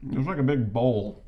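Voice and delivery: talking through a mouthful; words around a bite of food; mouth full. Real, not acted. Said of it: "Talking with your mouth full".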